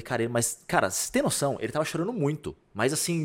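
normal talking voice

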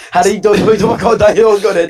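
Polish Hagrid. Retold or imitated. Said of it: "the fucking Polish version of Hagrid".

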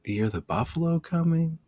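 high-pitched mock coach question; imitated coach's repeat. Coach looking at the kids and repeating himself, high-pitched. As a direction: pitch it way up, without shouting. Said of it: "say it again".

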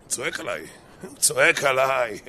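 mock aggrieved mumble, second time drawn out; talking to herself. Offended wife at the dishes, grumbling to herself. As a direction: grumble it over the chores. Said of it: "מתחילה לדבר לעצמה תוך כדי הכלים".

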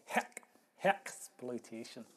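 mock Scottish accent, punching HECK; lightly put-on Scottish accent on "heck, hexploitation". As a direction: imitate a Scot, leaning on "heck". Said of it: "as the Scots say".

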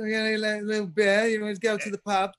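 playful fake London pub accent; Cockney accent. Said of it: "I'll be coming back with Cockney accent".

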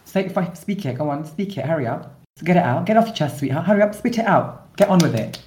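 high, taunting and impatient; condescending sweetheart taunt; mock goading. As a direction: egg him on, dripping with scorn. Goading partner in staged row.

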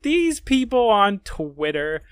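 slow, drawn-out retelling of Mom; imitating mother. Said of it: "She was like".

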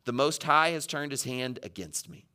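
softly resigned; understated, acted surrender; giving up. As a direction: let the voice sink in mild defeat. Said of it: "Just kinda giving up".

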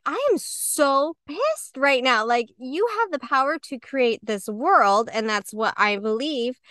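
a mild mock of venting at God, drawn out; praying to God in anger, slow and restrained; retold angry prayer. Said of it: "and I was praying".

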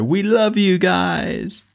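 high, slow, drawn-out stage shout to the crowd; a rock frontman thanking the crowd; hammed-up rock band goodbye; rock star farewell. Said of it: "like rock bands ... they go".

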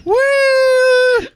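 high shouted whoop; a loud mock party woo. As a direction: whoop along with the joke. Co-host joins the whoop.

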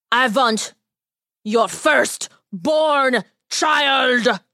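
slow, drawn-out ominous demand; a lightly voiced little man naming his price; sinister tiny man. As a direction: lay out the terrible price slowly. Tiny man's voice.

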